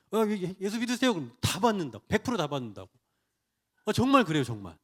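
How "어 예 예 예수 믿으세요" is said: acting out an assured evangelist; confident offer. Preacher imitating a church deacon handing out tracts, confidently. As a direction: say it up front, with confidence. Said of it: "이게 뭐냐면 자신감이에요".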